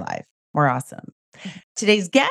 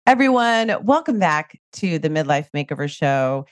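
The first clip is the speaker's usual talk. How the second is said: stuffy nose from a cold; nasal voice; 4 semitones lower than usual. Real, not acted. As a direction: talk through a blocked nose. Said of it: "If I sound like I'm talking through my nose".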